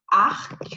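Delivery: "arc" ending in an audible K; sounded final C. Shown as a demonstration. Teacher showing an exception, "arc" with sounded C. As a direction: say French "arc", releasing the final K. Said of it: "you pronounce arc".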